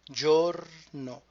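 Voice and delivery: "Giorno" with clear, open Italian vowels; crisp vowels. Shown as a demonstration. Teacher modelling "Giorno" vowels for students. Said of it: "Again, the vowels are crucial".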